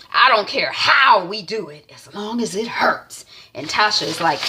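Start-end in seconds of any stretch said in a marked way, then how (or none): 0.1-3.2 hushed evil plotting; sinister whisper. Retold or imitated. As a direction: whisper it like a schemer. Villainous plotting line.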